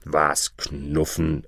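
slow, low-pitched farmer's retort. Acted. Farmer answers the Englishmen's threat, slow and low.

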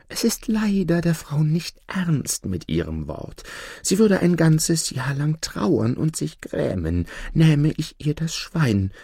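high-pitched devil voice. Acted. Devil explaining he cannot take the pig, high-voiced.

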